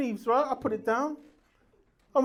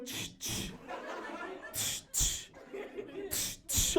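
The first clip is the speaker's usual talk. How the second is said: mock clapping sound; 7 semitones higher, 13 dB quieter, slower than usual. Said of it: "my arse going".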